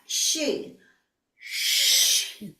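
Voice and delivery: voiceless shi breathed out; breathy exhaled shi; whispered huff. Shown as a demonstration. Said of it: "breathe it out like a whisper".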